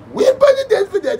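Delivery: laughing. Real, not acted. Laughing as he speaks.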